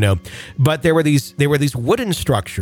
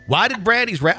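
put-on higher, faltering try at a Wisconsin accent; Wisconsin accent attempt; 6 semitones higher than usual. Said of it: "can't even do my own damn accents".

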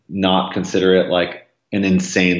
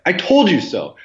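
smug I told you so; 11 semitones higher than usual. Retold or imitated. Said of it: "I was like".

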